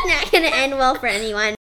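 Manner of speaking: high giggling between words; laughing hard. Real, not acted. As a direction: crack up while talking. Laughing fit in bloopers.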